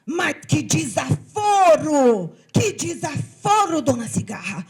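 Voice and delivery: an ant crying out in offended fury; outraged ant. Acted. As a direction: huff in outrage at the insult. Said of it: "ficou bem brava e disse".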